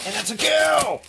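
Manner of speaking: hammed-up birth announcement; mock announcement. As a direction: proclaim it like a new parent.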